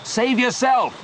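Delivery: high, pleading yell; desperate shout. A narrator's reading. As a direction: shout the plea across the water. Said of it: "shouted Leon".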